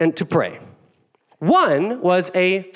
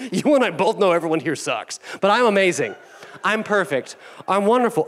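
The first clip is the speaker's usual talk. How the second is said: smug self-praise; 3 semitones higher than usual. Acted. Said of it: "he's like".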